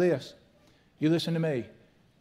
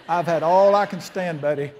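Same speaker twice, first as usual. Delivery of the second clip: mock fed-up; 7 dB louder than usual. Angry retelling, growing louder.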